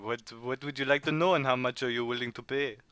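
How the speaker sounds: put-on French-accented haggling. Informant asking travellers what they will pay, French accent. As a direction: ask the price in a French accent. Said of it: "your French accent".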